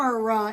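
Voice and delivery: "camera" in three separate beats; broken into syllables. Shown as a demonstration. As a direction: spell out every syllable of "camera": cam-er-a. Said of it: "is actually three syllables".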